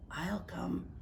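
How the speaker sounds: soft little whispered offer; small whisper. Acted. Tiny sea anemone quietly offering to come. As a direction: say it softly, like a shy tiny creature. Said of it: "whispered a small sea anemone".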